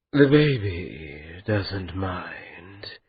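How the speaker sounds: slow, soft, sorrowful calm; sad smile. Acted. The andat answering Maati, smiling sadly, slow and soft. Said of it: "the Andat smiled sadly".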